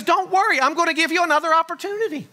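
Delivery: a hint of God promising another chance; mock-kind divine voice; voicing God. God voiced offering retest.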